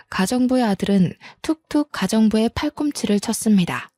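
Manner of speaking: plain reading voice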